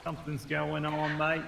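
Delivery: a failing, croaky voice; losing voice. Pretend. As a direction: voice going hoarse and thin. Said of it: "I'm losing my voice again".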